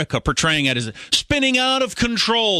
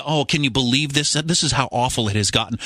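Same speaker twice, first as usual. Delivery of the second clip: mock media dismay; 6 semitones lower than usual. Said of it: "The media".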